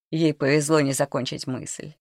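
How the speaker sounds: ordinary delivery, nothing marked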